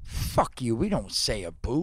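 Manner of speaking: a hint of Canadian, saying a boot for about; lightly Canadian, a boot said as in Canada; Canadian accent. The Canadian comic denies saying a boot, hint of Canadian accent. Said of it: "You just literally said a boot".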